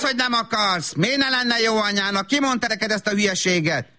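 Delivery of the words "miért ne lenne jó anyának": ordinary delivery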